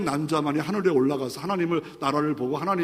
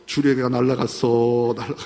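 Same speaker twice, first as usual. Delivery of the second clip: teasing elder imitation; 5 semitones lower than usual. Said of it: "맨날 흉내봐요".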